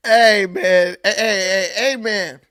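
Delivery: loud hey man, cheering a speech; cheering approval. Real, not acted. Host cheering the governor's tough-on-crime speech, loud call. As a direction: call out amen like at church.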